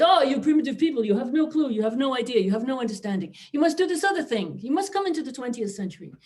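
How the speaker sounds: high, mocking lecture to primitive people; mock condescension. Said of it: "they came along and said".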